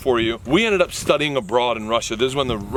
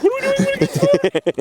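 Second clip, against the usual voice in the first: much higher, louder alarmed question; nervous squeak; 4 dB louder than usual. Retold or imitated. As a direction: panic a little as you ask.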